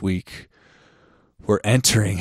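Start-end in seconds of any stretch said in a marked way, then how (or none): 1.5-2.2 out of breath. Real, not acted. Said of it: "I'm a little out of breath".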